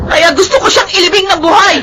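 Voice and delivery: tearful hateful yell; crying shout. Acted. Liza screams at her mother about Sandro, crying shout. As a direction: spit the hatred out in tears. Daughter screams hatred at stepfather.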